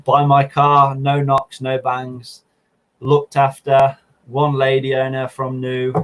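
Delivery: hint of small-ad sales pitch; typical car seller. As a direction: list selling points like a car owner. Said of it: "as every owner does".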